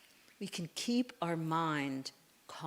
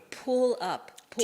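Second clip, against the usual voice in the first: higher, louder call to pull; loud cue; 5 semitones higher, 8 dB louder, slower than usual. Real, not acted. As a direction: call out the move with force. Instructor calling the movement.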